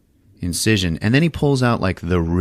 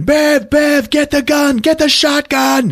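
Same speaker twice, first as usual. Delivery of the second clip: high, loud mock screams for help; hammed-up panic yell; panicked screaming; 4 dB louder, slower than usual. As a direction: scream urgently for backup, way up high. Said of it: "he starts screaming".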